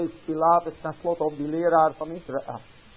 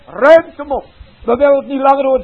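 even louder, higher, fast furious yell; angrier crowd; 6 semitones higher, 11 dB louder, faster than usual. Acted. Crowd shouting the message away, full fast furious yell. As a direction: hammer it home at full force.

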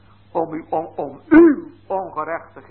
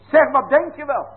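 raised, higher scolding of a fed-up parent; angry parent scolding; 7 semitones higher, 4 dB louder than usual. Retold or imitated. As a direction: tell the deaf child off, loud and high. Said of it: "En zeggen die".

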